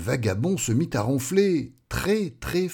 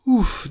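high puff of relief; relieved "ouf"; 10 semitones higher, 4 dB louder than usual. Acted. Relief once panic is over. (ouf de soulagement)

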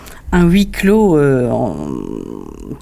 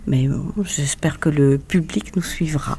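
soft whisper, voice dropped away; whispered aside; 5 dB quieter than usual. Real, not acted. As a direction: confide the hope under your breath. Hopeful aside at interview end.

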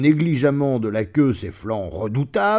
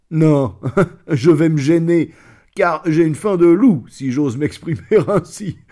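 loud, higher chuckling lion; laughing lion; 5 semitones higher, 6 dB louder than usual. Acted. Lion joking to the wolf about his wolf's hunger, loud laughing gloat. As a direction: gloat through a laugh at the pun.

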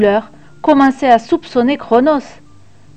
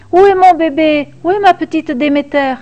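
frantic cry; 5 semitones higher than usual. A narrator's reading. Waking mother calls for her stolen baby, frantic cry. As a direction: cry out in alarm, rising at first. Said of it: "cria la pauvre mère".

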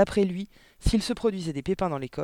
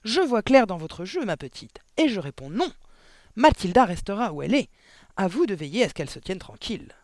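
loud, higher, domineering; overbearing headmistress refusal; bellowed ruling; 5 semitones higher, 7 dB louder than usual. A narrator's reading. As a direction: lay down the law to an underling. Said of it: "beugla mademoiselle Le Gourdin".

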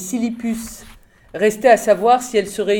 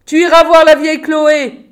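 loud, high call over the din; raised, high-pitched yell; urgent shout; 8 semitones higher, 9 dB louder than usual. A narrator's reading. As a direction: shout instructions while pushing him on. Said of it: "cria Jeeves".

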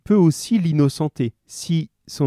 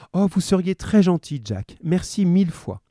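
lightly voiced, higher woman; a hint of a grateful wife; 4 semitones higher than usual. Voices the wife thanking Jack.

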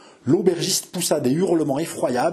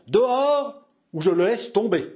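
calm and biting; 7 semitones higher than usual. A narrator's reading. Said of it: "de sa voix calme et mordante".

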